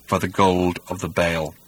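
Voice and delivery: low, soft rasp of an ancient robot. A narrator's reading. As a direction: rasp it like a cold, old machine. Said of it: "rasped the robot".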